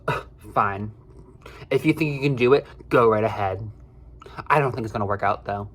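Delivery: grudging retold consent, opened with a scoff; imitating scoffing boss. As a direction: give in reluctantly, as the annoyed boss. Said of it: "scoffs at me and goes".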